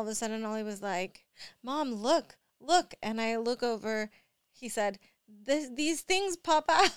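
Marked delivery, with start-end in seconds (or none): 1.6-2.9 put-on a little boy's call that climbs higher and louder on the second look; kid calling out. Mom imitating her son calling her over to look, rising excitement. 5.3-6.9 put-on higher, louder, a touch slower boy voice; lightly voiced little boy. Mom voicing her son showing off the pills, lightly played kid voice.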